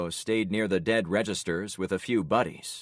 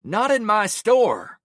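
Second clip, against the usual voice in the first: slow, much higher, louder wail; wailing cry; 13 semitones higher, 8 dB louder, slower than usual. Acted. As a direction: howl it at the gunfire. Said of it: "Javon wailed".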